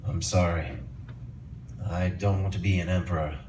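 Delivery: earnest oration, gradually building in volume; Jewish barber's speech. Acted. Barber addressing the world, solemn speech gathering force. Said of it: "the Jewish barber giving a speech".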